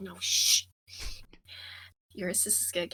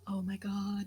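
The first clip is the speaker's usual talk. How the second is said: whispering. Real, not acted. Night whisper in sleeping camp.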